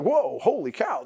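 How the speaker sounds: loud, slow astonished "whoa"; amazed locals. Retold or imitated. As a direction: gasp like a stunned waiter. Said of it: "They were like".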